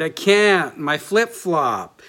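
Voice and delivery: a hint of a whiny little boy pleading; whining child. Pastor reading his son's excuse in the book, a light child's whine. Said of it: "He whined".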